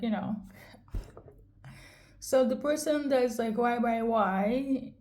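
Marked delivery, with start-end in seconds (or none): 3.6-4.9 frustrated. Retold or imitated. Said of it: "in frustration here".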